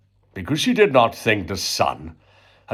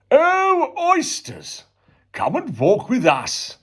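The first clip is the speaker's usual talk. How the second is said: 1 coaxing plea. A narrator's reading. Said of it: "the walrus did beseech".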